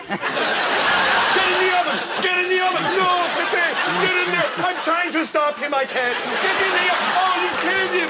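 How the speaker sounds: the dummy turning violent; high squeaky dummy voice. Acted. Dummy forces chef into oven.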